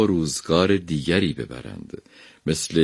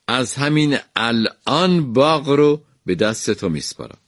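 king's proclamation, higher pitched; aloud to the gardener; 6 semitones higher than usual. A narrator's reading. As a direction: announce it across the garden. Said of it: "با صدای بلند به باغبان گفت".

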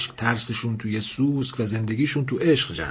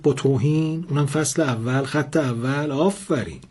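sharp retort; 3 semitones higher than usual. Acted. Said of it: "لاله تندی گفت".

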